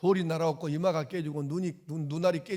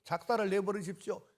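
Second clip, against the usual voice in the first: higher, indignant pretend prayer; mock vengeful prayer; 7 semitones higher than usual. Pastor mocking how we would pray against enemies, indignant. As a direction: play the bitter man begging God for revenge. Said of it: "우리가 평소에 살던 대로 하면".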